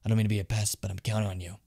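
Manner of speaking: understated, hushed bug enthusiast; lightly voiced bug collector. Bug collector confiding in Jimin about deals at night, lightly voiced and quiet. Reads game character's dialogue aloud.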